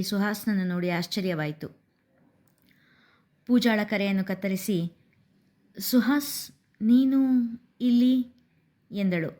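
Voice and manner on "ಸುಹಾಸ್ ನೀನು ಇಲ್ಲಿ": surprised. A narrator's reading. Surprised to see Suhas.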